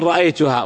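رأيتها ending on an open "-haa"; low رأيتها, stopped on its final alif; pausal alif. Shown as a demonstration. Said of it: "وقفت على الألف". (الوقف على رأيتها بالألف)

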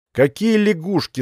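irritated. A narrator's reading. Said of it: "с раздражением спросил Королёв".

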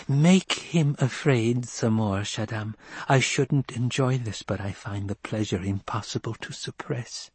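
lightly voiced child, relishing it; understated childish relish; gleeful child.

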